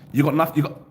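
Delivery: stuck, stuttering playback; mock stutter. Shown as a demonstration. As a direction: pretend to glitch and cut off. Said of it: "That's me trying to stutter".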